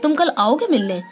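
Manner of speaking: surprised. Shown as a demonstration. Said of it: "आश्चर्य का भाव यहाँ प्रकट हो रहा है".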